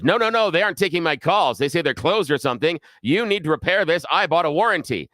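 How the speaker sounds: a hint of an indignant woman insisting; demanding customer. Angry customer voiced in story.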